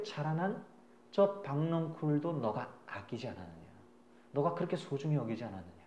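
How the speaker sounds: lightly voiced God, low and soft; the Lord speaking. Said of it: "주님이 그때 말씀을 하시는 거예요".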